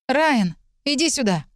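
wailing. Acted. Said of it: "завывала я".

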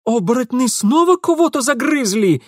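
high, loud frightened yell; Ingvar yelling. A narrator's reading. Ingvar yells to Mitya about the werewolves, high and frightened. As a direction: cry it out in fear. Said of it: "завопил Ингвар".

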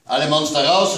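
father ordering monsters out of the room; calling out. A narrator's reading. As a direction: shoo the monsters out loudly. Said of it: "rief er".

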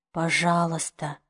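soft, slow plea; slow, quiet begging; pleading. A narrator's reading. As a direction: beg her gently to understand. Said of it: "произнёс он умоляющим тоном".

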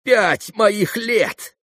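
high, very slow, drawn-out lament; anguished exclamation; impassioned cry. A narrator's reading. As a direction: stretch each word with feeling. Exclamation in acted farewell scene.

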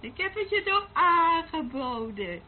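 taunting. Acted. Taunting the rival.

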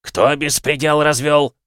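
громко и медленно, по-командирски; начальник наводит порядок; командирский бас. A narrator's reading. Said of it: "громыхнул он командирским басом". (громыхающий командный голос)

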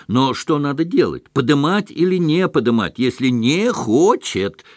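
the officer demanding clarity across the room; officer shouting. A narrator's reading. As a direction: call out, stressing "не" in "если не хочет". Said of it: "крикнул офицер".

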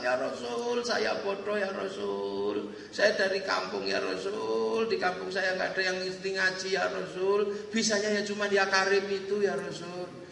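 plead, stretching the address at each phrase end; humble plea. Retold or imitated. Humble pilgrim confessing to the Prophet he is uneducated, pleading.

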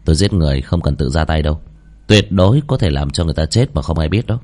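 low, serious menace; understated cold-blooded warning; stern threat. Acted. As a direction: say it low and matter-of-fact. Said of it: "Giang Thế Bạch nghiêm mặt".

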